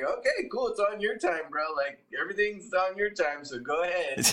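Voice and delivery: sarcastic brush-off. Retold or imitated. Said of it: "and I'm like".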